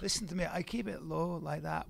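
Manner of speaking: low, quiet Scottish brogue; soft-spoken Highland Scot; Scottish accent. Acted. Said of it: "Your Scottish voice".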